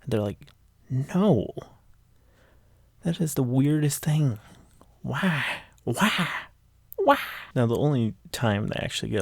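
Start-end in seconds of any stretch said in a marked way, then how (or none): 0.9-7.2 high, rising incredulous why, why, why; baffled disbelief. Retold or imitated. Team members asking Ferris why, in high incredulous disbelief. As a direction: play the team's stunned disbelief at the giant hand, pitched up.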